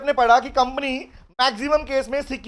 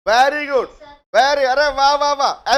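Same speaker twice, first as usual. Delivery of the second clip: excited praise; 7 dB louder, slower than usual. Real, not acted. Praising students' answer loudly.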